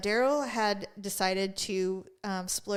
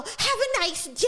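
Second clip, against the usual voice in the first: higher, sing-song fake nice; mock-polite preppy guy, higher; snide sweetness; 11 semitones higher than usual. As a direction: sneer it sweetly. Guy's snide parting words.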